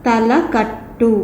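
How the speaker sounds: put-on teacher naming the sign to children, slowly drawn out; slow teaching drawl. Shown as a demonstration. Teacher drawing out తలకట్టు slowly for kids. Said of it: "ఈ గుర్తుని ఏమంటారు అంటే".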